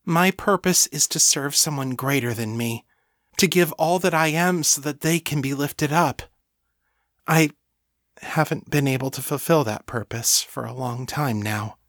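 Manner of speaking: lightly voiced, fervent thrall; devoted servant. Voices Lena in story.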